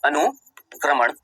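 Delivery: very slow, each word set apart by pauses; slow dictation. Shown as a demonstration. Teacher repeating the key line for students to copy, very slow. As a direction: dictate slowly, one word at a time. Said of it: "क्या बोला?".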